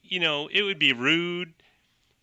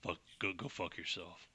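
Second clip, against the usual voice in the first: muttered, much softer curse; a hint of a sneering outlaw; spat insult; 7 semitones lower, 14 dB quieter than usual. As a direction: spit the words out low. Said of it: "he spits, and he says".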